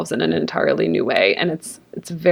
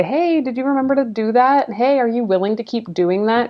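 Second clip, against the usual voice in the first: higher-pitched, lightly voiced coach; checking-in coach; 5 semitones higher than usual. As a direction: lightly act out a coach's friendly nudge.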